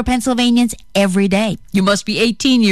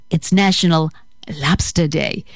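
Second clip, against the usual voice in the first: lower-pitched mock Boston accent, "Lobster" without its R; 5 semitones lower than usual. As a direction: imitate a Bostonian saying "Lobster". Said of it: "as my friends in Boston say".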